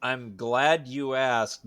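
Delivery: drawn-out knowing tease; slow smarmy tease. Acted. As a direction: savor each word, teasing. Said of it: "I don't like it when you say it that way".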